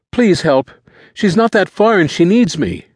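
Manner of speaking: high, loud begging; high-pitched boy in distress; desperate plea. A narrator's reading. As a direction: plead frantically for your sister. Boy begs for his sister.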